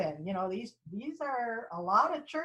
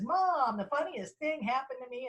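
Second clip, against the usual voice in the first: put-on excited child; 4 semitones higher than usual. Child tells mom exciting news.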